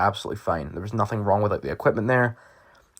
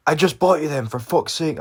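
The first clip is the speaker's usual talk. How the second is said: mild retold outburst, higher at the start; exasperated dad; 5 semitones higher than usual. Dad learns the trousers are binned, exasperated. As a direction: imitate an annoyed parent, falling off at the end.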